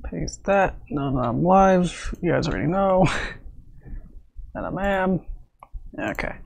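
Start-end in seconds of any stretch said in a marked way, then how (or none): none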